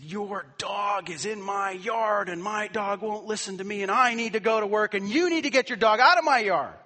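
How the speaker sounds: loud, high, furious complaint building up; angry neighbor. Retold or imitated. Pastor imitating the angry neighbor at his door, shouting.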